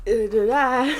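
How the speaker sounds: high, loud flustered babble; mock stammer. The heroine stammering after turning the shield to stone, flustered babble. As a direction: stammer it out as if caught off guard. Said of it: "and she's like".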